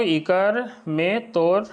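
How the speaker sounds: इकर में तोर spoken very slowly, rising on इकर; slow Nagpuri demo. Shown as a demonstration. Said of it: "तो जैसे बोलते हैं हम लोग". (इकर में तोर धीरे-धीरे, इकर पर उठान)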